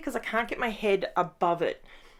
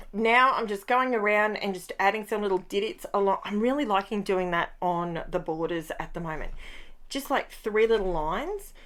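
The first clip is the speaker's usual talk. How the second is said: ordinary talk, nothing marked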